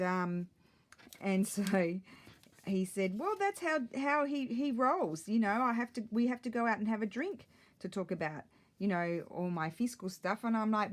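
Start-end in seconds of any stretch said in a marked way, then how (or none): 3.2-10.4 high mock husband voice, building. Husband voiced in retold chat.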